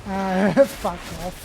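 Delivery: slow, drawn-out Australian fuck off; lazy Australian drawl on the Ah; Australian accent. Pretend. Friend mocking Aussie slang, slow Australian accent. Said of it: "my Australian accent".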